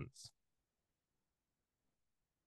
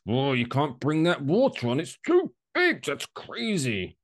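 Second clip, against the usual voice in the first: mocking flight attendant; 4 semitones higher than usual. Griping about airline staff, mock flight attendant voice. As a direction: parody a fussy crew member stopping carry-ons. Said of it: "the amount of times I have to com-, like".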